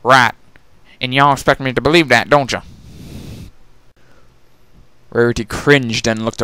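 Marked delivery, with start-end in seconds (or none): 0.0-2.6 skeptical country mare. Acted. Applejack doubting Rarity, lightly skeptical. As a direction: call her bluff.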